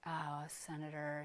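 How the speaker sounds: offhand reply. Retold or imitated. Guide answers the guard, unimpressed.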